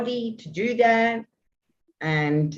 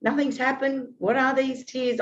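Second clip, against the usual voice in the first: pitched up, bewildered and exasperated; frustrated self-questioning; 6 semitones higher than usual. Retold or imitated. Woman recalling frustration at her own tears, exasperated. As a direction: ask yourself why the tears come, fed up. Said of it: "without the frustration of".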